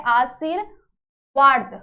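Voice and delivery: आशीर्वाद stretched very slowly, syllable by syllable; slow sounding out. Shown as a demonstration. Teacher sounding out a word for students, very slow. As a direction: sound out आशीर्वाद slowly so kids hear each part. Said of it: "क्या यहाँ पे आशीर्वाद सही लिखा".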